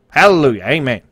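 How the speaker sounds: a quick burst of mock preacher, loud on hallelujah; hammed-up pulpit cry, then a settled amen; mock preaching. Streamer pretends to preach to chat, mock sermon style. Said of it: "I'm gonna preach for a minute here".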